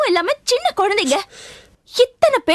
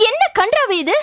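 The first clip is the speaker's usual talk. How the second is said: ordinary talk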